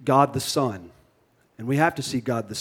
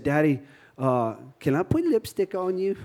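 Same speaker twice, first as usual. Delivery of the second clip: lightly voiced little girl, rising at the end; a hint of a small child's soft request; little daughter asking; 5 dB quieter than usual. Daughter asks dad to let her put lipstick on him, lightly imitated pleading.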